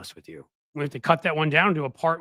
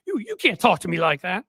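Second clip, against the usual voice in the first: hammed-up indignant protest; mock-offended sputter; mock losing it; 3 semitones higher, 3 dB louder than usual. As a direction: act affronted, as if losing it. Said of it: "He lost it".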